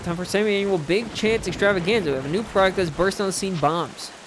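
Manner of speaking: brisk shop flyer patter, lightly done; advert read. Acted. Shop ship announcing a bomb sale, lightly voiced advert read. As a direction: read it like a quick sales pitch.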